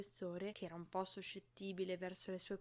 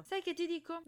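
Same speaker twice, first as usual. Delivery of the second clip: grumbled; 9 semitones higher, 6 dB louder than usual. A narrator's reading. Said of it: "bofonchiò".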